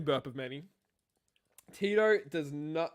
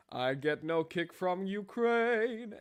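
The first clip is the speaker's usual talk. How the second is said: quoting; 3 semitones higher, much slower than usual. Retold or imitated. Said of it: "he said a nice little line".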